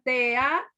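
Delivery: TEA held together as one syllable, te-a; slow TEA as a single group; wrong syllable grouping. Shown as a demonstration. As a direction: join E and A in TEA before the break. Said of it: "no me pongan".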